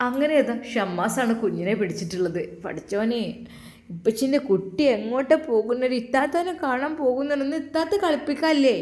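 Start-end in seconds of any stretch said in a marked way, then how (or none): 2.6-8.8 put-on high sing-song coo to a baby; baby talk. Father cooing to his baby, high sing-song baby talk. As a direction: coo at the little one.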